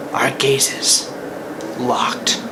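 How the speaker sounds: hushed, movie-trailer whisper; whispered suspense; dramatic whisper. Acted. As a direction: breathe it like an epic moment. Dramatic slow-motion moment.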